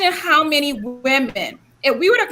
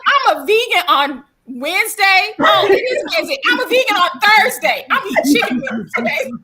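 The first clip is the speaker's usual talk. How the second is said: laughing; 5 semitones higher than usual. Retold or imitated. Joking reply to her son.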